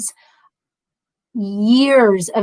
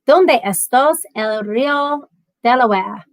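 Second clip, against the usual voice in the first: trying Spanish. Shown as a demonstration. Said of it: "Español".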